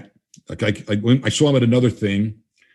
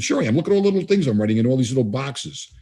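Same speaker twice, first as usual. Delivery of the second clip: playful insistence; 3 semitones higher than usual. Retold or imitated. Playfully defending his shorthand notes.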